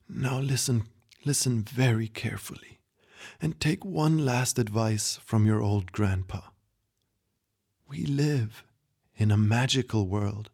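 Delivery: passing on one last secret lovingly; wise old grandpa. Acted. Grandpa gives last advice.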